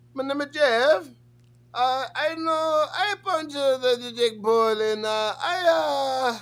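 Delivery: odd, very high voice. Explaining why he laughed at a fighter's voice, the speaker mimics him: impression of a fighter's voice. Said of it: "he literally sounded like".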